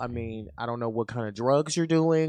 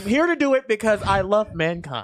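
higher, energetic mock tirade; scornful rant; 4 semitones higher than usual. Host showing how they scold the ignorant, scornful rant. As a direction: lay into them with exasperated scorn.

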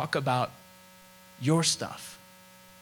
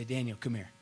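tender apology; 3 semitones lower, 6 dB quieter than usual. Retold or imitated. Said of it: "And he'd say".

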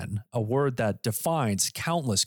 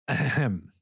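throat clear; 2 semitones lower than usual. Acted. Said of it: "let's tell the good people on TikTok".

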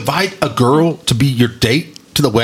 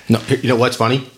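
normal talking voice

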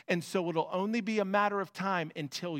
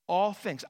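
"all" stressed and falling; emphatic repeat; 2 semitones higher than usual. Acted. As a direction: hit "all things" hard. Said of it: "I love the emphatic nature".

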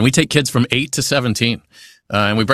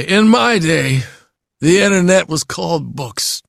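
put-on slow, higher old-timer voice with a lazy mouth; old man; 6 semitones higher, 3 dB louder, slower than usual. Shown as a demonstration. Voice actor demonstrating a character for aspiring actors, old man voice. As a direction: drag it out like a breathy old man. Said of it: "that's how you play an old man".

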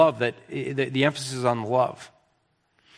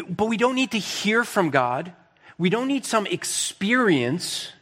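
higher-pitched, emphatic sermon delivery; earnest preaching; 4 semitones higher than usual. Real, not acted. Preacher closing his case on sufficient scripture, earnest preaching. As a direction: press the closing point home with conviction.

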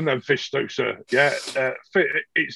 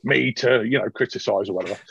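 Van Gebel; faster than usual. Acted. GM voices Van Gebel again.

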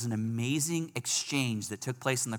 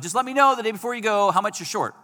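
higher, louder mock voice of the man; emphatic imitation; 10 semitones higher, 7 dB louder, faster than usual. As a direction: hit it hard, like he meant it. Imitating the man's offer again.

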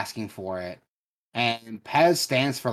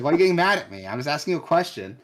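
higher, louder, mock-defensive; retold exasperated protest; 6 semitones higher, 5 dB louder, faster than usual. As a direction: replay a clerk protesting to an unreasonable customer. Retelling protest to angry customer.

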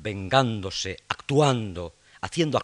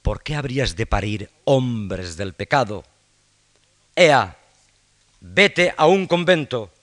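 angry shout; 3 semitones higher, 11 dB louder, slower than usual. Acted. Hamlet berates Ophelia.

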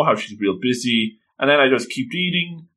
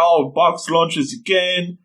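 put-on whiny little girl; 5 semitones higher, slower than usual. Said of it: "Tsumigi's like".

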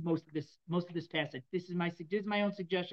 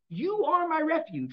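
higher, louder and slow, calling up to God; pleading cry to God; 9 semitones higher, 6 dB louder, slower than usual. Acted. King David calling out to God, a loud high plea. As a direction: cry it out like a desperate king in prayer.

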